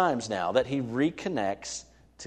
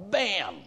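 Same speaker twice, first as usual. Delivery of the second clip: mock slap; 9 semitones higher than usual. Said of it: "reach through the speakers and slap me".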